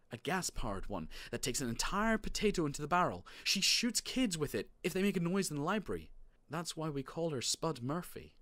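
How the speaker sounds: put-on high, eager kid voice; excited child Marty. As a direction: tell a tall tale with rising excitement.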